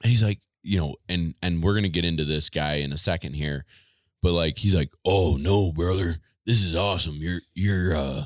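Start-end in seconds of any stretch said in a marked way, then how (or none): 5.0-8.2 rough, gravelly wrestling hype voice. Retelling what a new boss said on the phone: Macho Man Randy Savage voice. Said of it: "he sounds like Macho Man Randy Savage".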